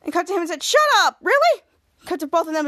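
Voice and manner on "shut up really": loud, high-pitched excited disbelief; high, excited outburst. Acted. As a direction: blurt it out, thrilled and incredulous. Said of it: "Captain Man standing up excited".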